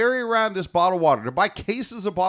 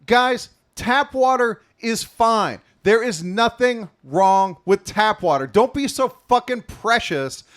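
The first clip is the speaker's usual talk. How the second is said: mock rant; 2 semitones higher than usual. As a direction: rant it with fake outrage. Rant about tap water.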